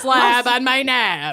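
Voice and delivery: slow mock Minnesotan drawl; Minnesotan accent. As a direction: ham up the Minnesota vowels. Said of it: "worst Minnesotan accents".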